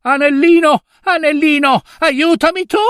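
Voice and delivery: high, loud, frightened cry; terrified cry for help. Acted. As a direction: call out for help in panic. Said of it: "e gridò". (grido di paura acuto e forte)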